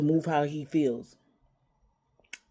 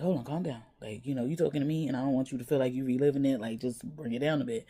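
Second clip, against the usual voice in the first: softer, soothing mother voice; soothing a child who is reliving a hurt; calming; 3 semitones lower, 4 dB quieter than usual. Retold or imitated. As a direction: gently talk him down, a touch softer. Mother calming her upset son.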